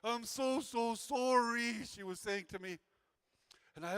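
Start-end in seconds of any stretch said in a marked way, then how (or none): 0.0-1.8 mock crying sorry. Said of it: "she's crying on my shoulder".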